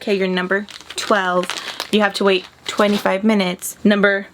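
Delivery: flat robotic machine voice. Pretend. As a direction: read it out like a machine. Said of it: "I don't know why I'm talking like a robot".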